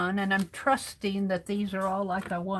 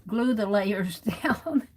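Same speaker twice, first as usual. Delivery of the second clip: laughing mid-line; slower than usual. Real, not acted. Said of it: "So this is a lesson".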